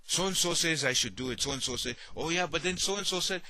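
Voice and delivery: mock indecisive back-and-forth; dithering inner voice. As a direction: act out a confused mind arguing with itself. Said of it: "you end up talking like this".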